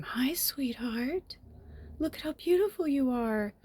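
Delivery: slow, soft whisper to a little bird; tender whisper. Real, not acted. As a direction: coo quietly to the bird.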